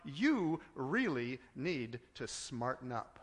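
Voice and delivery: low, stern mock rebuke; harsh rebuking Jesus. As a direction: scold her coldly. Harsh version Jesus never said.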